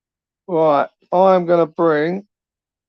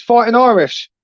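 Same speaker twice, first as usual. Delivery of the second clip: calling out; 5 semitones higher than usual. Real, not acted. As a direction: hail him across the stream. Calling out to a guest.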